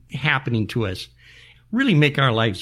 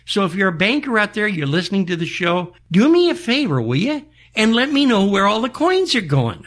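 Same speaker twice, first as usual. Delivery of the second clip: back in my day rant; 6 semitones higher than usual. Real, not acted. Old man ranting, appeals to bankers.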